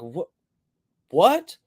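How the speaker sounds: mock bewildered what; stunned what. Reacting to stranger's shock.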